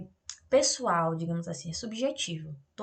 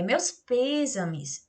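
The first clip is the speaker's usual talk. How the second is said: condolence; 3 semitones higher, much slower than usual. Shown as a demonstration. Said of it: "não vai ser só uma exclamação".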